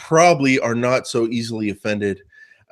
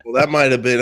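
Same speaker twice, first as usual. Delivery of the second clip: usual speaking voice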